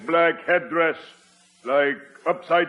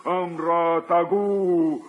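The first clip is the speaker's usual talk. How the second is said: put-on baby talk. Chief begging the spirit, babbling like a baby. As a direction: babble like an infant. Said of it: "baby talk".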